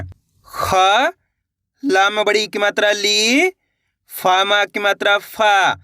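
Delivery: each letter and vowel sign sounded separately; sounding out letters. Shown as a demonstration. Teacher spelling out a word letter by letter for pupils. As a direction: spell out ख, ली, फा one by one. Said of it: "देखिए किस तरीके से है।".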